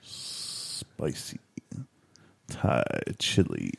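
low, slow, breathy sultry whisper. Pretend. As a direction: purr it out seductively. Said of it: "Give me a more sultry voice about it".

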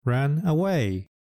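ran away said slowly and clearly; slow, careful "ran away" for learners; teacher modelling "ran away" slowly; slow model word. Shown as a demonstration. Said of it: "逃げることを英語で".

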